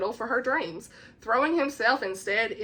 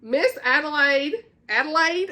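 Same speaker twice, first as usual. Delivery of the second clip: slow, higher southern lilt on the name; southern accent; 5 semitones higher, 4 dB louder than usual. Real, not acted. Reviewer reading the heroine's name aloud, southern accent. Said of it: "honey, my southern accent".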